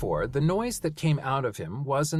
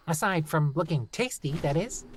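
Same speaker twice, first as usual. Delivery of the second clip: gnome voice; 5 semitones higher than usual. Acted. Gnome teasing.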